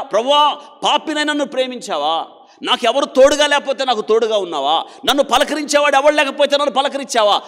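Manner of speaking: a sinner weeping and beating his chest; tearful repentant prayer. Acted. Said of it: "గుండెలు బాదుకొని ఏడవాలి లేదా?". (గుండెలు బాదుకుంటూ ఏడుస్తూ ప్రార్థించే పాపి)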